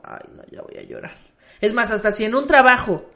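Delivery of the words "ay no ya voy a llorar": whispered on the verge of tears; breathy near-sob; about to cry. Retold or imitated. Mock near-tears when a serious talk comes. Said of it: "Es como".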